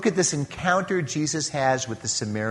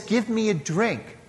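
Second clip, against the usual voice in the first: softer, gentle asking of "Give me a drink"; gentle request; 5 semitones higher, 5 dB quieter than usual. Shown as a demonstration. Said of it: "this is not a demand".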